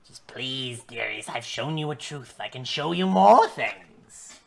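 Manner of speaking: crone voice. Acted. Hag tempts the party.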